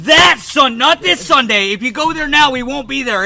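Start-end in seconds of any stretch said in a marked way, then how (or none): 0.0-1.7 monster truck ad. Pretend. Mock promo voice continues.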